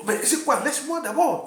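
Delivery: high, loud push-back; retold protest. Rejoue sa protestation face à l'homme. (protestation rejouée, haute et forte)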